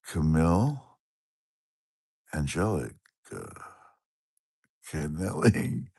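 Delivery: sounding out a viewer's name piece by piece. Shown as a demonstration. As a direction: spell "Camille Angelica Canelli" out word by word. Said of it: "I should just think how to say it".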